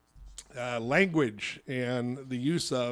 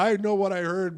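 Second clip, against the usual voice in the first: retold in-your-face anger; 4 semitones higher, 6 dB louder than usual. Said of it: "was really in my face".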